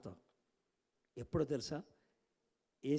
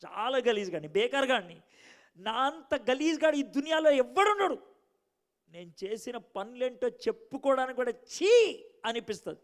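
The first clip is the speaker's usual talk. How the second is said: anguished prayer; 5 semitones higher, 7 dB louder than usual. Retold or imitated. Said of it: "మస్తు ఏడుపు వచ్చింది నాకు".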